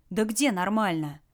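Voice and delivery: slow, mildly indignant objection. Acted. Lara objecting as Red plays down injuries, indignant. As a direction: protest with a touch of outrage. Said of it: "возмутилась Лара".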